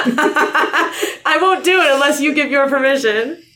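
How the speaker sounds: high, slow, laughing fake sob; mock tearful plea. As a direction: plead like a hammed-up crying groom. S0 voices Jake, mock pleading.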